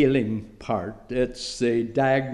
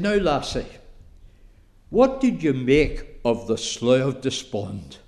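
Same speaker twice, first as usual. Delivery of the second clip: put-on a light Scottish accent, stern elder questioning a child; a hint of a stern Scottish elder. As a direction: play a Scottish church elder testing a young girl. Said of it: "excuse the Irish into the Scottish".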